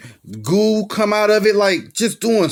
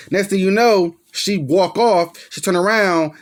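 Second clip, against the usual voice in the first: ordinary delivery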